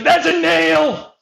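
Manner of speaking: mild mock insistence; mocking quote. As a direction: drag it out like a dim insistent guy. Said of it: "He's like".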